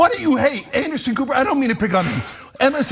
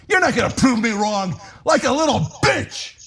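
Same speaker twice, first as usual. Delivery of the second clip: shouting. Real, not acted. Ranting at Biden.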